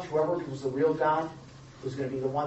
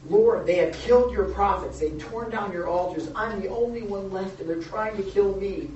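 Elijah's desperate plea; 3 semitones higher, 4 dB louder than usual. Retold or imitated. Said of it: "He appealed to God against Israel".

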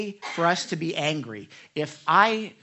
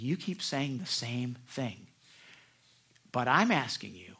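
slow, low, patient imitation; mild, measured retelling of a gentle pastor; gentle firmness; 6 semitones lower than usual. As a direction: press gently, word by word. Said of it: "really usually very gentle with that".

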